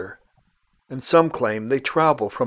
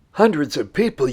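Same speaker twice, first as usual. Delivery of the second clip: hundreds of people raised as a mildly doubting question, Hundreds lifted higher and louder; mock surprised echo; 4 semitones higher, 4 dB louder than usual. Host voicing a skeptical viewer's question, mock surprised. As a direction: play an imagined viewer echoing in light disbelief. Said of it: "you say?".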